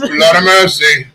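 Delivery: drawn-out hammed-up Jamaican accent; mock Jamaican accent. Host showing off the accent to the guys, mock Jamaican. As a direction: stretch it slowly in a put-on Jamaican accent. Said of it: "You can't do Jamaican?".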